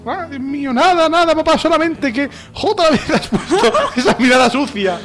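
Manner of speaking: put-on pleading child. Son to papá after the slap, high mock pleading.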